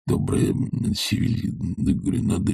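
soft, half-voiced muttering to himself. A narrator's reading. Professor mutters to himself while the girl cries. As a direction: mumble it under the breath. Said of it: "бормотал Филипп Филиппович".

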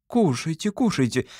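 lightly voiced mother smoothing things over; conciliatory mother. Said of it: "примирительно сказала мама".

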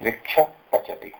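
वृक्ष पचति, the visarga only half said, breathed into प. Shown as a demonstration. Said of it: "वृक्षः पचति नहीं बोल के". (उपध्मानीय से बोलिए)

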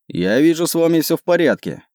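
mildly satisfied, pitch lifted; satisfied remark. A narrator's reading. Captain checks on passengers after the arrows, mildly satisfied. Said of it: "удовлетворённо заметил Вокал".

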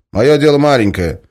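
loud, high drill-style orders; shouted commands. Acted. Guard shouts orders at the prisoner, loud. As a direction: bark each command.

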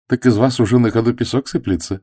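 girl half-mocking, half-cross; half joking, half annoyed. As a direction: laugh at him while irritated. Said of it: "наполовину шутливо, наполовину раздражённо".

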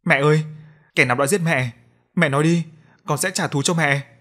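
a son's anguished call for revenge; aggrieved outburst. Acted. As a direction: demand the killer's name with pent-up anguish. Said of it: "Vương Toàn cất giọng uất ức".

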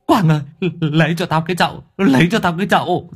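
high, hurried cry for help; urgent plea. Acted. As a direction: stammer it out fast, about to be sick. Queasy man begs for a basin.

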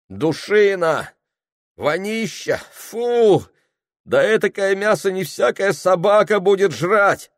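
high, loud, revolted market woman; shrill-pitched outrage over stinking meat; disgusted shopper. Acted. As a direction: spit out the disgust at the rotten meat.

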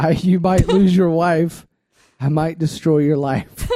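a lightly put-on dramatic reading voice; motivation voice. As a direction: read the lyrics like a hammed-up pep talk, only slightly voiced. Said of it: "I'll read it in this voice".

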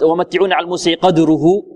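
chanted Quran verse; Quran recitation. Shown as a demonstration. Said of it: "بعض القراءات". (تلاوة مجودة)

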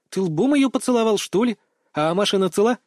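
voiced as a chattering teen girl, rapid questions; Mia's voice. A narrator's reading. Girl's voice in story.

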